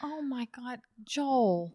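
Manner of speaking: mock exasperation. Mock scolding the tipster.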